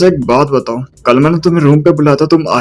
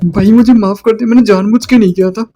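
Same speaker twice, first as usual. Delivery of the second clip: higher, pleading apology; scared kid; 7 semitones higher than usual. Acted. Boy on the school roof begs Jijon's pardon, higher, scared pleading. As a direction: plead in a higher voice, afraid of a beating. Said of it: "एक बंदा आके कहता है".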